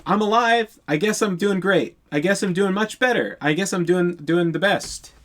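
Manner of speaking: a touch of a lump in the throat, retold; choked up. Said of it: "he's, like, getting choked up".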